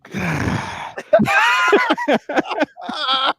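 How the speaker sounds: high, wheezing burst of laughter; real high-pitched laughing fit; long laugh. Real, not acted. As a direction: crack up helplessly, pitch soaring. Cracks up at imagined remark.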